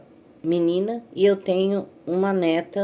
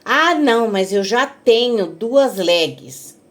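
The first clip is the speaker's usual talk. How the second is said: whiny refusal; 3 semitones higher, 4 dB louder, slower than usual. Retold or imitated. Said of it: "neta recusando a calça".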